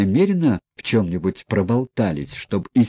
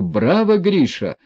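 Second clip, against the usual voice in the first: shouting bravo; 8 semitones higher than usual. Retold or imitated. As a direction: cheer him on across the room. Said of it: "Я кричу".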